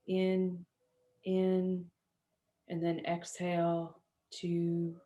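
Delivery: unhurried yoga nidra voice, settling down; guided meditation. Acted. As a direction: guide them gently through body and breath, with long pauses.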